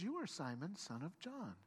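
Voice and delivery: softly voiced, calm statement. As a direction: say it gently and calmly, falling away at the end. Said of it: "he says very calmly".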